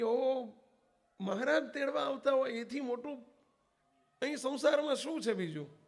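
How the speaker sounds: high, loud cry of delight; overjoyed. A narrator's reading. Devotee hears god will take his mother, overjoyed loud exclamation. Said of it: "આનંદનો પાર ન રહ્યો".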